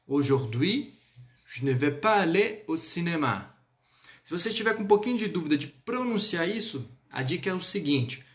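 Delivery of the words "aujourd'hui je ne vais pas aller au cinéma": French sentence modelled for repetition; "Aujourd'hui" lifted, pause, then "cinéma" falling; pronunciation model. Shown as a demonstration. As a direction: say it clearly for learners to repeat. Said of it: "Pronuncia aí".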